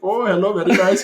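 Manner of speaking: high, loud mock Indian accent. Showing what Russian doesn't resemble, hammed-up Indian accent. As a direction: put on a lilting, exaggerated Indian accent. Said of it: "like, an Indian accent".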